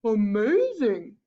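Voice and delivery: slow, drawn-out wonder; lightly voiced, marvelling monster; amazed Gruffalo. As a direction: stretch the word in astonishment.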